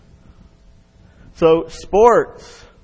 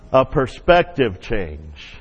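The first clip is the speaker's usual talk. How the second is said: slow repeat; 5 semitones lower, slower than usual. Shown as a demonstration. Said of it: "Can you say that?".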